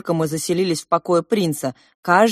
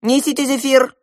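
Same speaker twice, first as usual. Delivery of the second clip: loud high command; calling servants; 9 semitones higher, 8 dB louder than usual. Acted. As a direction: summon the servants loudly. Prince calls servants.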